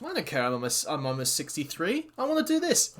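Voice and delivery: lightly voiced defiant wrestler, rising to a high finish; acted defiance. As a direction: play a stubborn veteran, pitch climbing. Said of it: "Sting's like".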